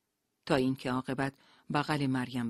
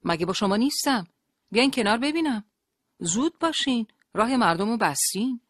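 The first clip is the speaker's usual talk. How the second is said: loud, raised-pitch angry order; harsh shout; 8 semitones higher, 8 dB louder than usual. A narrator's reading. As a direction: shout them out of the way roughly. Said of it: "با خشونت داد زد". (فریاد خشن و آمرانه)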